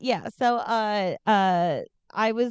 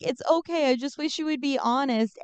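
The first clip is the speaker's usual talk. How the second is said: high-pitched, upset pleading; mock-tearful plea in a raised pitch; retold bawling; 6 semitones higher than usual. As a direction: act out pleading through tears, lightly. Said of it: "I start bawling".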